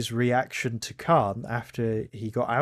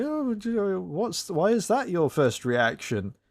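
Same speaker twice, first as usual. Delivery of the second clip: high-pitched, stammering mock disbelief; mock incredulity; 8 semitones higher than usual. Critic imitating the upside-down person's objection, mock incredulous. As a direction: start very high and splutter into the question. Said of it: "this upside down person is saying".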